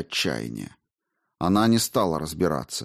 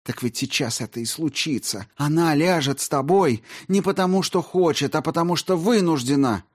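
bitter accusation; 9 semitones higher than usual. A narrator's reading.

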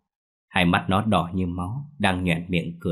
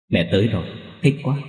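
put-on gleeful ghost child; 3 semitones higher, faster than usual. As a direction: squeal with delight. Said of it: "tỏ vẻ vui sướng lắm".

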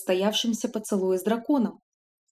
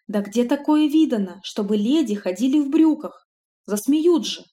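loud, appalled outcry; horrified old-fashioned maid; 3 semitones higher, 4 dB louder than usual. Acted. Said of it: "ужаснулась помощница".

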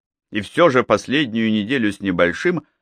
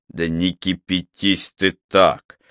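put-on Scottish accent; 3 semitones lower, slower than usual. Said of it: "добродушно пробурчал Малкольм, имитируя тяжёлый шотландский выговор".

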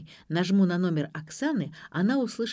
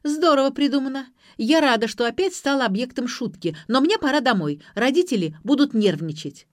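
high, loud annoyed protest; acted girlish outrage, pitched up; indignant; 6 semitones higher, 5 dB louder than usual. A narrator's reading. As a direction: huffily refuse to play along. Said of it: "возмутилась Ксения".

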